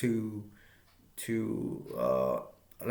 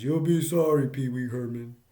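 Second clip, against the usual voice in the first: put-on movie-villain warning; imitated taunting threat; 4 dB louder than usual. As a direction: sing out a mock threat. Francis threatens Pee-wee after refusal.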